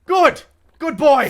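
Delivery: high, loud praise as to a dog; condescending praise. Acted. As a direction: talk down like to a pet.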